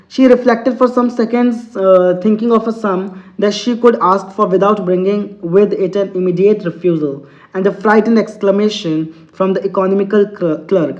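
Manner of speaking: slow, deliberate English reading; teacher reading a story to students, very slow; slow read-aloud. Acted. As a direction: read each word out slowly for the class. Teacher reads story text aloud.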